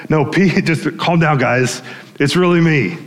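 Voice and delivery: chuckling, informal calming of friends; casual reassurance. Retold or imitated. Jesus telling disciples it's him, imitated casual reassurance. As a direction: reassure them lightly, half laughing. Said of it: "It's just like".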